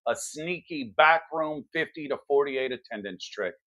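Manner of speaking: hard-hitting political commentary read; punchy news monologue. Acted. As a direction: deliver it like a cable news opener. Scripted news-style opening monologue.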